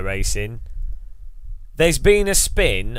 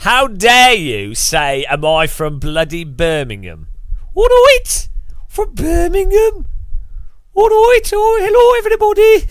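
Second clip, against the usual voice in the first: hammed-up indignant shriek, much higher and louder; mock outrage; 12 semitones higher, 7 dB louder than usual. Streamer to chat, shrieking mock outrage. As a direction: squeal in fake offence at the chat.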